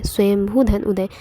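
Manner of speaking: slow the split down so students can follow, leaning on धन; slow careful repeat. Shown as a demonstration. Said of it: "teacher repeats the split slowly". (धीमे और साफ़, धन पर ज़ोर देकर)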